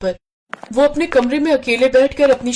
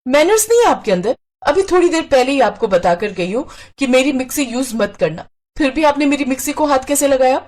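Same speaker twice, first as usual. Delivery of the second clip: sharp, raised, scolding sister-in-law; angry; 4 semitones higher than usual. Acted. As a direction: snap at her over the mixer. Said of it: "Pinky ने गुस्से में". (गुस्से में ऊँची आवाज़ में डाँटना)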